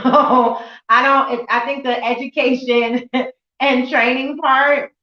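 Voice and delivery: laughing through her words; sheepish laugh as she talks. Real, not acted. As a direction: laugh a little while speaking. Laughs while admitting she was aimless at nineteen.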